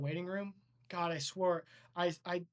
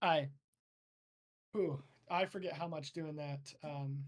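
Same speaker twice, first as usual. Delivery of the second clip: usual speaking voice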